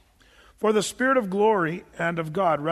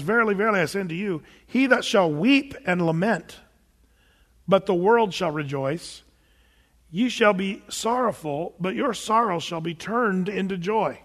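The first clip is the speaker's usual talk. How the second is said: scripture reading. Acted. Reads Jesus' words from John.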